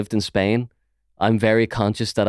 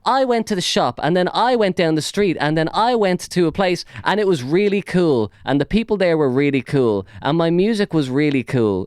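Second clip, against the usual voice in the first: mock rambling; 6 semitones higher than usual. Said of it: "repeating the same words over and over".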